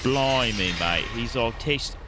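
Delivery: put-on British accent. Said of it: "A British guy".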